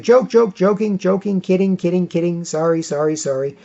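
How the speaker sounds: starts high and loud, then winds down to sheepish; a rushed, flustered take-back that fades out; hasty backpedal. Retold or imitated. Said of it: "I was like".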